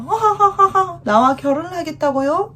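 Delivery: high, laughing disbelief; laughing surprise. Acted. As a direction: laugh at the proposal. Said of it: "이렇게 얘기하죠".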